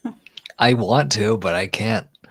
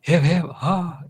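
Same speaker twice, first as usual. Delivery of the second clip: mock cheer; 8 semitones higher, 4 dB louder, slower than usual. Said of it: "you know".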